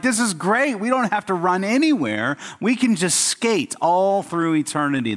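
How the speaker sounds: high, bright-eyed glee of the skating mice; excited mice. Acted. Preacher voicing delighted mice in his joke, high and excited. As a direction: pitch it up like thrilled little mice. Joking mice thrilled with roller skates.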